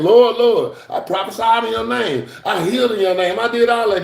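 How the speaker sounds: high, loud protest; pleading to the Lord. Pretend. The many at the last day pleading with the Lord, high and anxious. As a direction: insist on your good deeds. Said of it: "a lot of them saying".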